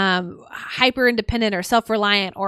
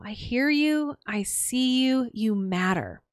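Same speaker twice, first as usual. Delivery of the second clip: tender self-validation; 4 dB quieter, slower than usual. Shown as a demonstration. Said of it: "That is so powerful".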